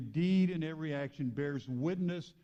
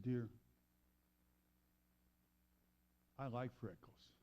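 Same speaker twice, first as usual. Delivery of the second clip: tender grandma; 4 semitones lower, 9 dB quieter than usual. Retold or imitated. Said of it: "grandmother knelt down beside her and said".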